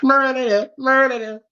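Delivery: high, deliberate mock villain line; Mufasa voice. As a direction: chant it like a lion villain. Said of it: "Oh, say it again".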